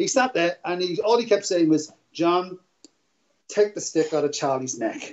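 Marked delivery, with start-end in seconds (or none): 2.1-5.1 put-on laid-back, unbothered, mellow, calm tone. Telling a story, repeating what a friend kept saying during a fight, imitating a mellow friend. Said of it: "he was so mellow".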